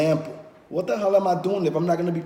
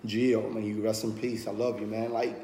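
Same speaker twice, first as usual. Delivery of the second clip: grieving softly; 4 semitones lower, 5 dB quieter than usual. Real, not acted. Mourning friend lost to suicide.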